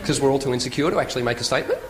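statement with a steep rise on "statement"; uptalk. Shown as a demonstration. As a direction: insecure questioning lift on "statement". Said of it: "we all go up at the end".

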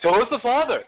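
high, emphatic, punched SHOW; with oomph. Shown as a demonstration. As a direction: give "Show us the Father" a lively lift. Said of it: "give it some oomph".

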